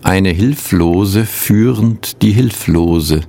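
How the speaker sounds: measured poem recital with long pauses; poetry reading. Acted. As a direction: read each line as verse, letting it settle. Reads two translated poems.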